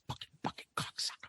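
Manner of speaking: fast whispered curse. Retold or imitated. Teacher whispering curses at the class, whispered. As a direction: hiss it under your breath, quick. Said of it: "And he would whisper".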